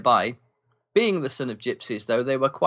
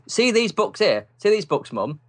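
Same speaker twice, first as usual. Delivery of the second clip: mocking friend; 8 semitones higher, 3 dB louder than usual. Friend mocking to his mum.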